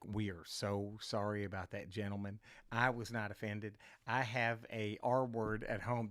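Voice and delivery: low, soft apologetic imitation; softly acted reassurance; sincere apology. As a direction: imitate an earnest, hushed apology. Audience member apologizing afterwards.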